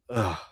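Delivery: short acted groan of defeat; resigned groan. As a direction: groan as if giving up. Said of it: "the moment you just go".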